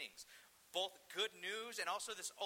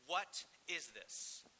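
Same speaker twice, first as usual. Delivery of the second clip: slow, spaced-out disbelief; stunned crowd; much slower than usual. Retold or imitated. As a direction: imitate onlookers stopped in their tracks. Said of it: "everyone stops and goes".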